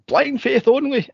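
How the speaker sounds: high slow mock-pious blind faith only; mock stern church. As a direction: preach it like a stern nun, slowly. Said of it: "quoting the church".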